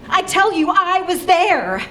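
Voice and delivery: emphatic. Acted. Dramatic insistence.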